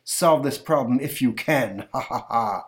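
slow taunting villain; half-hearted evil laugh; gloating pharaoh. Acted. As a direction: sneer at the trapped wizard.

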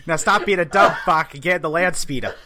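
put-on loud, laughing Boston accent; brash Boston guy barking orders. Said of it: "with Boston accent".

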